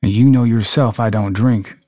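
acted Southern US voice; Southern accent. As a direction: say it like a Mississippi local. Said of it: "practice with our Southern accents".

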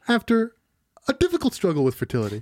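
fast dramatic trailer read. Acted. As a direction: announce it like a movie trailer. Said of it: "synopsis in his voice".

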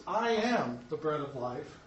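slow, with weight on "I am"; stress on I AM. Shown as a demonstration. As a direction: lean on "I am", then ease through the rest. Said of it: "which also adds emphasis".

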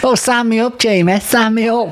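high-pitched mock begging to join; hammed-up eagerness; eager volunteer. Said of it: "you were going".

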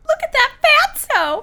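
put-on high, loud, drawn-out kid jeer; hammed-up scary child, pointing someone out. Child jeering at a fatso, loud scary voice. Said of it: "in that scary voice".

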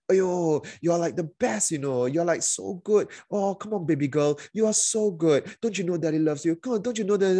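high, coaxing, sugary father voice; fake-sweet parent. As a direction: sweet-talk the child to hook her in. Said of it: "flip, super sweet, super nice".

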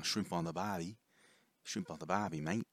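lightly hammed-up Australian twang; stereotypical Australian accent. Shown as a demonstration. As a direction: do a touch of cartoon Aussie. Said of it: "stereotypical Australian accent".

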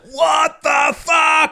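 high, slow yelled outburst; mock shout. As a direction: bellow it in mock disbelief at the fight. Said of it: "male copulatory vocalizations".

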